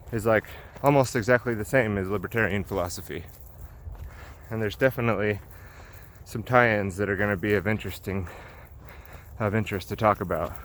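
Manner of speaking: slightly winded while walking uphill; talking between breaths on a climb. Real, not acted. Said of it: "I'm sorry I'm out of breath".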